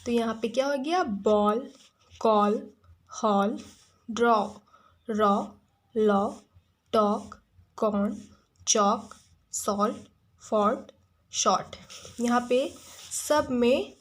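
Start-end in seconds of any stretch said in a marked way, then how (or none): 1.0-11.8 each word from बॉल to शॉर्ट given a round aw, one at a time; reading a word list. Shown as a demonstration. Teacher reviewing the aw words with the class. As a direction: read the list word by word, stressing the aw. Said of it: "सब में अ का pronunciation".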